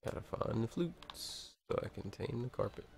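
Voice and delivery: talking through hiccups; hiccupping between words. Real, not acted. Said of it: "I got the hiccups".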